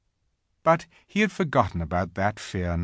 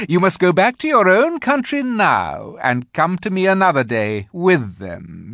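high, loud, emphatic queen; insistent Queen; 7 semitones higher, 6 dB louder than usual. A narrator's reading. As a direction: press the boy like a commanding queen.

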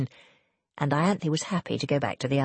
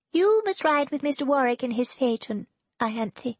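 put-on much higher, commanding young lady; imperious; 8 semitones higher than usual. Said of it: "Serena said imperiously".

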